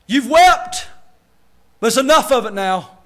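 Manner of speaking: lightly voiced folksy Nehemiah, easygoing; a Nehemiah who talks like a laid-back Southern preacher; preacher playfully imagining Nehemiah telling the crowd to move on; casual Nehemiah. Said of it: "If I was Nehemiah, the way I talk".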